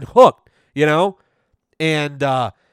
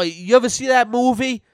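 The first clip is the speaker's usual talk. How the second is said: self at school; 9 semitones higher than usual. Retold or imitated. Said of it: "at school, I'd be like".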